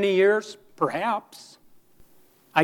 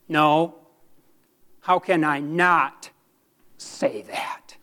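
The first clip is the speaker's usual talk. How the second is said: earnest rebuttal; slower than usual. Retold or imitated. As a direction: turn the question back, pausing, then drop right down. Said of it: "Someone once asked me".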